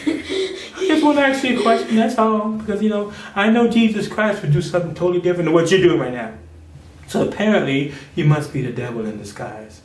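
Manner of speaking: sweet innocent voice. Retold or imitated. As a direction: play it sugary and innocent. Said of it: "She can talk very softly".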